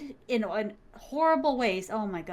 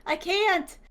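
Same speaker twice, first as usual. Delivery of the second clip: retold crying plea; 8 semitones higher, slower than usual. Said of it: "And I'm crying".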